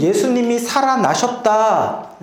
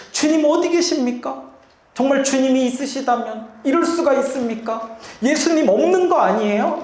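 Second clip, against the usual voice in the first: higher pleading cry to God; half-acted anguished plea, pitched up; imitating wailing prayer; 5 semitones higher than usual. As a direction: mimic a despairing believer crying out. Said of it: "울부짖고 부르짖는".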